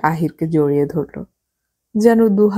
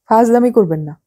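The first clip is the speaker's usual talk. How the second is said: louder, sharper rebuke, a bit higher; exclaiming; 5 semitones higher, 4 dB louder than usual. Acted. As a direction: scold him for the joke. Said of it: "Ahir চেঁচিয়ে উঠল". (উঁচু গলায় ধমক)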